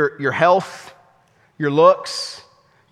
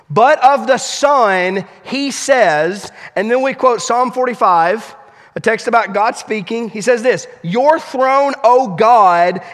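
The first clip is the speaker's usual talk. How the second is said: scripture reading; 2 semitones higher than usual. Acted. Reads scripture aloud.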